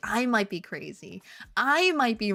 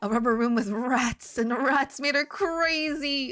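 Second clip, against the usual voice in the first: lightly hammed-up lunatic monologue; mock madman rant; 2 semitones higher than usual. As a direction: lean into the madness. Parody of crazy rubber room rant.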